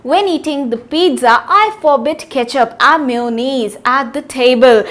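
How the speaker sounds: example sentence read slowly and softly. Shown as a demonstration. Teacher reading example sentence to class, slowly. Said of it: "mayonnaise का है ये sentence".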